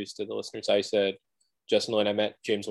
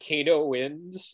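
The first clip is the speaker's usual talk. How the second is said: slow game announcer call; drawn-out arcade announcer; Kano announcer voice; 3 semitones higher, much slower than usual. Retold or imitated. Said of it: "Kano saying".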